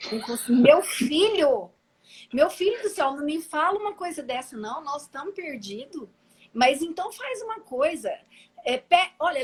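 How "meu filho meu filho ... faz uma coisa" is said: panicked plea. Retold or imitated. Jerônimo panics at lost driver.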